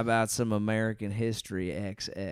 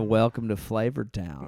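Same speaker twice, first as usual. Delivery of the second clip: Guy Fieri; 2 semitones lower than usual. Retold or imitated. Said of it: "That was the Guy Fieri one".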